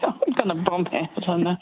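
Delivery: flustered, giggly confession; laughing self-doubt. Real, not acted. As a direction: admit defeat through real laughter. Caller laughs, stumped by quiz question.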